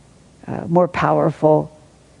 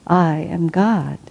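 solemn declaration; much slower than usual. Retold or imitated. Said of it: "He declared".

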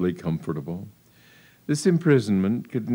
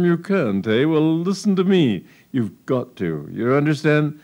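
stern father; 5 semitones higher than usual. Acted.

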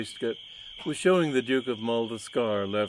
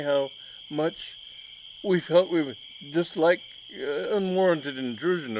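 nervous shy gentleman; 4 semitones higher than usual. Acted. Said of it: "He giggled nervously".

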